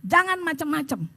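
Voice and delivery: stern retold warning; firm, final telling-off; firm rebuke. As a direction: lay down the rule and close the matter. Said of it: "saya tegas".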